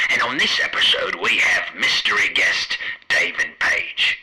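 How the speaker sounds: same line through a toy megaphone; tinny announcer read. Acted. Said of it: "switch off this megaphone".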